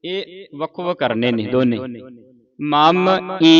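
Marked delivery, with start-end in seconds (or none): 2.6-3.5 ਮਮ then ਈ said through the nose, kept apart; nasal ਈ. Shown as a demonstration. Teacher showing pupils the nasal ਈ in ਮਮ ਈ. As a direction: nasalise the ਈ after ਮਮ. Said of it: "ਈ ਨੱਕ 'ਚ ਬੋਲਿਆ ਜਾਊਗਾ ਇਹ".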